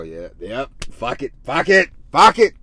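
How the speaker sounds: venting fuck it. Shown as a demonstration. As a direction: let the frustration out, building up. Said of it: "Do like I do. When I'm feeling negative, I go".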